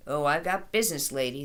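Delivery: mildly voiced snarl back; a hint of a menacing carny; carny snarling back at the mother, lightly. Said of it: "the other person snarled back".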